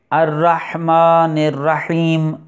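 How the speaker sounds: الرحمن الرحیم slow with a clear throat ح; slow recitation demo. Shown as a demonstration. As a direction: breathe out the ح of الرحیم. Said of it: "ہا کا مخرج". (ح کا مخرج نمایاں)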